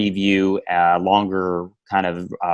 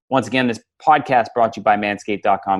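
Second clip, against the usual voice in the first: upbeat sponsor read, over music. Acted. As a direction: pitch the promo code like an ad. Sponsor read at podcast end.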